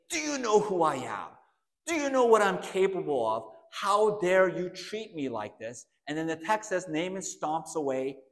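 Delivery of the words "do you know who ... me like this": indignant and louder, a bit higher; a proud general insulted, demanding respect; outraged. Retold or imitated. Naaman rages at Elisha's servant, mildly mock outraged. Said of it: "Naaman is outraged".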